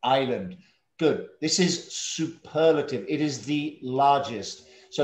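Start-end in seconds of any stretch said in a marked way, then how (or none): 0.0-0.6 "Island" as eye-lund, falling at the end; silent S. Shown as a demonstration. Teacher modelling the word for a student, "Island" with silent S. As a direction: leave the S out of "Island". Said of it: "the S is silent".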